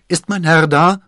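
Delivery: high, loud servant's shout through a door; excited call. A narrator's reading. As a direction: call out urgently, pitched right up. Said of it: "klopfte Planchet aufgeregt an die Tür und rief". (aufgeregt und laut gerufen, hohe Stimme)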